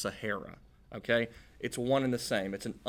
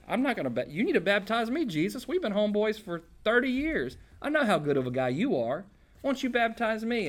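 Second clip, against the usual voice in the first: pleading John the Baptist; 9 semitones higher than usual. Retold or imitated. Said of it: "That's why he said, like".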